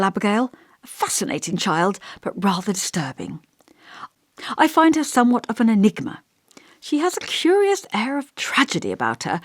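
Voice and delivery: lightly voiced elderly vicar, musing and gentle; thoughtful old vicar.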